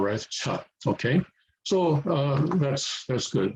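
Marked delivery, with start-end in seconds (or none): 0.3-0.5 "Ch" let out with a puff of air; aspirated ch. Shown as a demonstration. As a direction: release breath audibly on "Ch". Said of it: "the air coming out".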